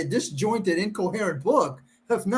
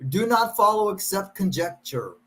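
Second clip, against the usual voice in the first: comical reading. Pretend. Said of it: "improvise and kind of make it comical".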